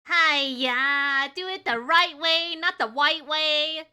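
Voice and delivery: hammed-up Asian accent, punchy and loud. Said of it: "should I say it in the Asian accent".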